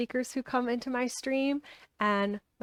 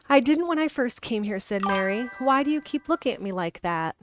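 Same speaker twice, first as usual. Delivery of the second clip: reading a novel aloud; steady storytelling read; story narration; 4 dB louder than usual. A narrator's reading.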